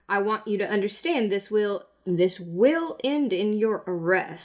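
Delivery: a hint of a stern lawman; stern law officer. Guard warns of arrest.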